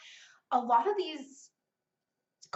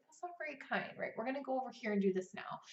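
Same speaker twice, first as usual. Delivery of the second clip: softer, calm and firm; gentle parent; 6 dB quieter, faster than usual. Retold or imitated. Mother gently stopping her son from hitting his sister. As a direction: gently set a limit. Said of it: "I'll be like".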